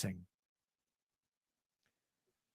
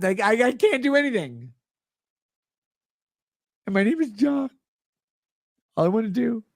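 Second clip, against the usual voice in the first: mocking whiny voice; 5 semitones higher than usual. Mocking the fan's plea.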